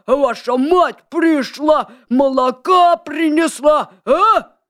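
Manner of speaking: gruff, slow and loud wolf; thick wolf voice. A narrator's reading. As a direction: belt it out like a rough wolf. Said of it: "закричал своим толстым голосом".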